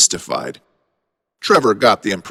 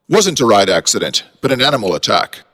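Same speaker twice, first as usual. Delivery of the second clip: put-on British accent; faster than usual. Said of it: "said a British accent".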